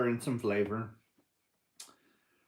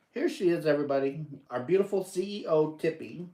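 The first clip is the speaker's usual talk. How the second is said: higher, louder showing off his dog; showing the little dog to the chat, proud and louder; proud presenting; 4 semitones higher, 4 dB louder, faster than usual. Real, not acted. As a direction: proudly present her to the audience.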